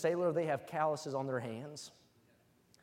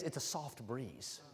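hushed soft breeze; 4 semitones lower, 10 dB quieter, slower than usual. Acted. Sermon climax on phrase.

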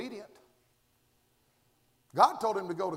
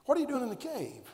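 quicker, fuller pressing repeat; pressing question; 4 semitones higher than usual. Shown as a demonstration. Preacher pressing the question on the congregation. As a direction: ask it again faster and firmer. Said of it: "there's a question that's monumental".

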